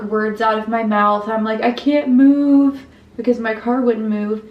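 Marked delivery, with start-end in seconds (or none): 1.6-2.9 slow, louder imitated wail; mock sobbing. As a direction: drag the words out in a higher mock wail. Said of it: "I'm sobbing and I can't get".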